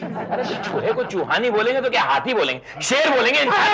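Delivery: rising into an exasperated shout; building exasperation. Acted. Wife mocks the neighbour's request, building to a shout. Wife argues about calling rats rats.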